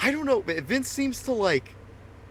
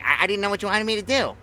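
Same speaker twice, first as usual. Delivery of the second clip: imitating Vince; 6 semitones higher, faster than usual. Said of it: "He's like".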